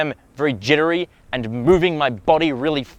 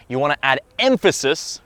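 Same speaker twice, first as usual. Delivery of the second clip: "emphasis" leaned on harder than the words around it; added emphasis. Shown as a demonstration. Coach showing emphasis on some words, "emphasis" stressed. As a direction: punch the word "emphasis". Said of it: "Can you see that? Emphasis on some words".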